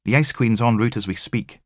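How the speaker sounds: dry sympathy from the tech; wry female tech. Acted. Tech telling Logan about the sick pathologist, wry.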